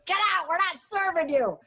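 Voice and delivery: high, fast and dismissive; snooty high refusal. Acted. Restaurant host turning away bread loaves, high and snooty. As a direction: shoo them out like a haughty maître d'.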